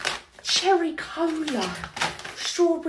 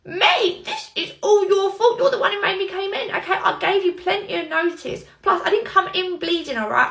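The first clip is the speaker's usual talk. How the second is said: laughing. Acted. Arguing while cracking up.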